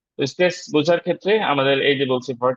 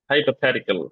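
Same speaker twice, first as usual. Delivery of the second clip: "hypothetical" with stress on hy and the; double stress on hypothetical; much slower than usual. Shown as a demonstration. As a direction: stress the first and third syllables of "hypothetical". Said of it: "হাই এর আগে stress আছে".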